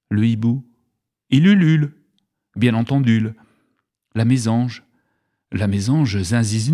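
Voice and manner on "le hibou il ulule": owl hoot. Shown as a demonstration.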